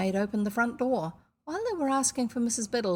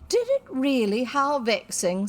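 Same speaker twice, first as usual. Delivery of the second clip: louder, slow and kindly sympathy; 5 semitones higher, 6 dB louder than usual. A narrator's reading. Missus Biddle kindly sympathizes with Anthea. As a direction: sweeten every word. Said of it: "said Missus Biddle kindly".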